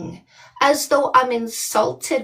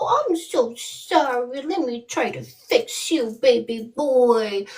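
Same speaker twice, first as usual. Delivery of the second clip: mock baby talk. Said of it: "treat them like a little baby boy and go".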